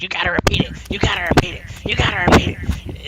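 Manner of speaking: sing-song mock of a bossy teammate; mocking nag. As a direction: parrot him like a nagging know-it-all. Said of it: "he would sit there and be like".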